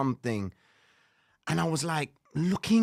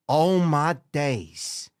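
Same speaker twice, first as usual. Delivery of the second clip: slow, louder, stunned; drawn-out shock; 2 semitones lower, 4 dB louder, much slower than usual. Retold or imitated. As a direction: let the disbelief stretch out. Shocked retold reaction.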